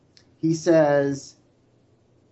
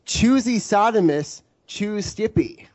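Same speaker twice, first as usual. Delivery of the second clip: chipper 1950s ad; 6 semitones higher than usual. Acted. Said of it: "I'm not finished".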